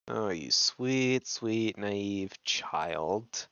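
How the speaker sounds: condescending sympathy, slowly falling away; mock pity. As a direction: pity a naive innocent, stretching it out. Mock pity for naive character.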